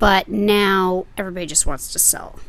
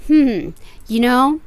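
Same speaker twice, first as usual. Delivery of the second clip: coy dealer; 2 semitones higher than usual. Retold or imitated. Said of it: "they'll say".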